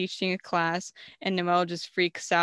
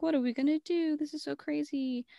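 higher, fretful elf voice; mock panic; 8 semitones higher than usual. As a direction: fret about it in a raised voice. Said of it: "And then they're like".

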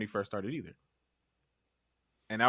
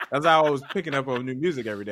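laughing; 3 semitones higher, 6 dB louder, faster than usual. Real, not acted. Laughing through his own story.

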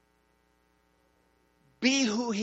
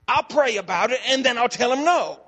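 smart aleck; 3 semitones higher, 4 dB louder than usual. Retold or imitated. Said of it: "still being a little bit of a smart aleck".

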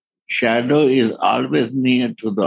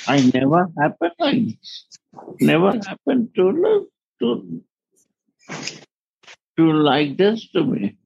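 astonished; 6 semitones higher than usual. Acted. Voices the astonished Lord.

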